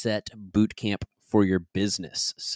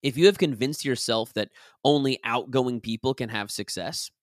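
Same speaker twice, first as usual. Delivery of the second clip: measured, articulated nonfiction narration; audiobook read; 2 semitones higher than usual. Acted. Author recording a self-help chapter for listeners, measured audiobook read. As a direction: read the chapter out with deliberate emphasis. Reads own book aloud as audiobook.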